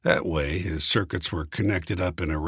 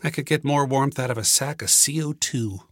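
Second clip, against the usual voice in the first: a little sore; 8 semitones higher than usual. A narrator's reading. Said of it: "I said, a little sore".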